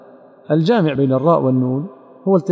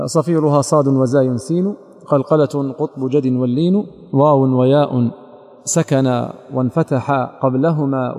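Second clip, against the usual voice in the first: slow, measured poem recitation; unhurried chanted-style verse reading; slower than usual. Shown as a demonstration. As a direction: recite the didactic verse slowly, drawing out the metre.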